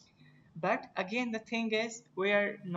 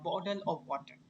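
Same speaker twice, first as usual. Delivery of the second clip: American accent. Shown as a demonstration. Teacher showing students how Americans say it, American accent. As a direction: flap the T's in bottle of water, American style. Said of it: "अगर American होते हैं तो हम simply कहते हैं".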